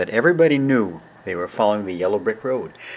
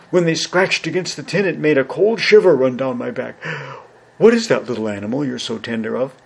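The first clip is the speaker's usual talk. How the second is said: lightly voiced lion, lively then curious; a hint of a big timid beast; cowardly lion; 3 semitones higher than usual. Lion tells Dorothy about his claws, lightly voiced lion.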